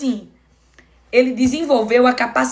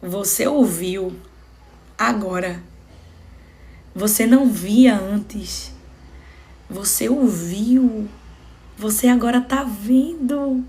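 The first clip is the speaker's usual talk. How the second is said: loving Jesus; 2 semitones lower than usual. Acted. Speaking to the man just healed of blindness, tender and loving. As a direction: let each phrase land gently, with pauses. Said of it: "é tanto amor na fala de Jesus".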